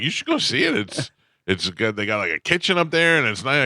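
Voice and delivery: high, eager imitation of pushy friends; lightly mocking the friends' pep talk; mock urging friends. Friends urging him upstairs.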